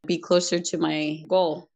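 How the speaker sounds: sarcastic. Retold or imitated. Speaker mocks her younger self's perm joy, sarcastic. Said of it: "I'm being sarcastic".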